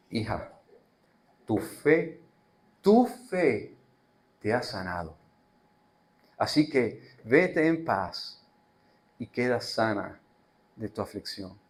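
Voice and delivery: Jesus tenderly sending the woman away in peace. Acted. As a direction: comfort her gently.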